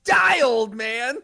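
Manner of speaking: villain threat. Acted. Sorcerer attacks priest.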